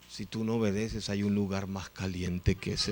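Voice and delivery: understated, deliberate threat; dry warning. Retold or imitated. Pastor's dry warning in retelling.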